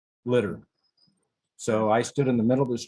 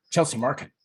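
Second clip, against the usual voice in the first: higher-pitched echo of the destination; retold cabbie's pointed check; questioning echo; 4 semitones higher than usual. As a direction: imitate a cabbie querying the destination.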